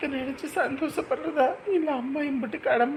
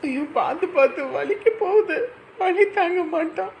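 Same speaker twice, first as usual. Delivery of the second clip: anxious mother; 3 semitones higher, 5 dB louder than usual. Acted. Mother begs them to be gentle with her son, loud and anxious. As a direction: fret loudly over the hurting child. Mother fretting during ear piercing.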